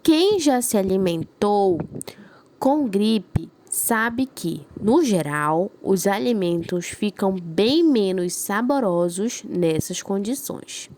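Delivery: slow, careful read-aloud for the class; teacher reading a sentence aloud slowly. Shown as a demonstration. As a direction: read it out slowly so they hear each word. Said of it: "Então, vou ler aqui".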